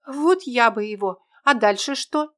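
lightly voiced young girl asking her friend; little girl Tera. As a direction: play a small lost girl, hopeful.

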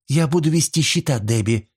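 smiling. A narrator's reading. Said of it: "улыбаясь".

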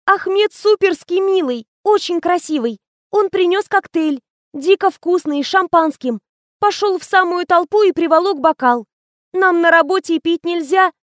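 put-on young assistant gossiping.

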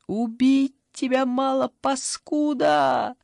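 high, slow, tight with tears; ringing with held-back tears; tearful ringing voice. A narrator's reading. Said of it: "звенящим от слёз голосом".

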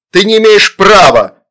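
high, loud protest; exclaiming. A narrator's reading. Father shields daughters from demon, loud exclamation. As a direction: cry out in outraged protest. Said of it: "воскликнул папа".

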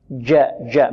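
جاء with the jim from the middle of the tongue; correct jim. Shown as a demonstration. Teacher modelling the correct جاء for the class. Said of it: "من وسط اللسان".

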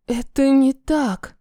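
trembling whisper. Acted. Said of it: "шепчу дрожащим голосом".

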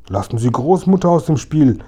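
a touch of indignant protest. Acted. Kasperl protesting to the robber, mildly indignant. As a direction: defend Grandmother, mildly outraged. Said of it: "rief Kasperl entrüstet".

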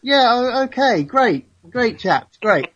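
chirpy cold-caller tone; telephone voice. Pretend. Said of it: "this is my telephone voice".

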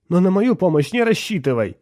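high, loud tearful refusal; tearful outburst. A narrator's reading. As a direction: squeeze it out loudly through tears. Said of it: "не стесняясь своих слёз, выдавила". (сквозь слёзы, надрывно)

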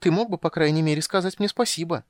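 a high, loud stage whisper; kender's shrill stage whisper; piercing whisper. Acted. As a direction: hiss it so everyone hears. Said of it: "заметил Кендер пронзительным шёпотом".

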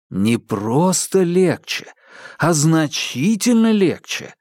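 slow, savoring enthusiasm; enthusiastic. A narrator's reading. Makar cheerfully explains the bait plan, enthusiastic. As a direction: relish each word eagerly. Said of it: "воодушевлённо отозвался Макар".

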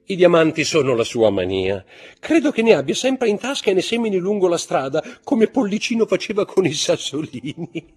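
amused, laughing. A narrator's reading. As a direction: tease with a laugh in the voice. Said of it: "disse ridendo Morcerf".

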